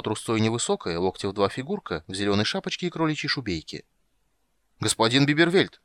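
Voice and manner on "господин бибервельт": breathless call, higher and louder; panting. A narrator's reading. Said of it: "засопел гном".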